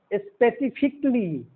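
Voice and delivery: "स्पेसिफिकली" ending in -fik-lee; silent A. Shown as a demonstration. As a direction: drop the a before "ly" in "स्पेसिफिकली". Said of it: "ये जो उच्चारण है इसको ध्यान रखेंगे".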